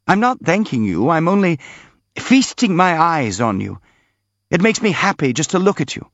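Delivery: lightly voiced happy prince. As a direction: lift the pitch in mild, grateful delight.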